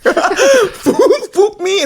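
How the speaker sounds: high, laughing mock Asian accent. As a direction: squeal it in a joking Asian accent. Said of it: "We gotta stop doing the Asian accents".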